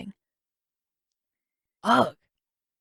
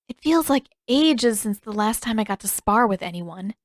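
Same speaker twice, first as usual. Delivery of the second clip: Katara, lightly voiced. Katara speaking.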